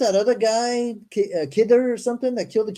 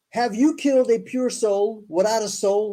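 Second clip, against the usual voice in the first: scripture reading; 2 semitones higher than usual. Acted. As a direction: spell out each phrase deliberately. Reads scripture aloud.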